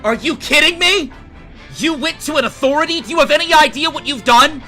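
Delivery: furious high shout at his daughter; father screaming at his eleven-year-old daughter; screaming in rage. Acted. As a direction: scream it down at her, losing all control. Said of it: "he starts screaming".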